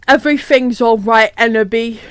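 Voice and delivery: mock-tender reassurance; hammed-up sensitive boyfriend voice. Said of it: "said Vampire all sensitive".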